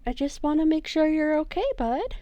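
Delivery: lightly voiced, reassuring character; gentle reassurance. Player as James comforting Glob, gentle reassurance. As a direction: reassure a scared little creature, lightly acted.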